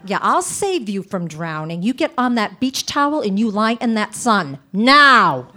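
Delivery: like a death threat. Retold or imitated. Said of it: "she'd say them like they were death threats".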